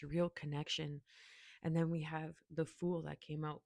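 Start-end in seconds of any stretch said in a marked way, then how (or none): 1.6-3.6 hiccups. Real, not acted. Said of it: "Excuse me, I'm hiccuping".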